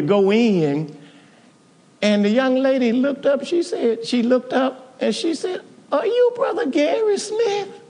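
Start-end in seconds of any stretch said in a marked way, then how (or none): 5.9-7.8 surprised. Retold or imitated. Young lady recognizes him.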